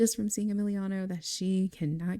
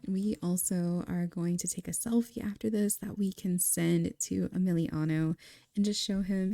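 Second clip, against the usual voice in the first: normal talking voice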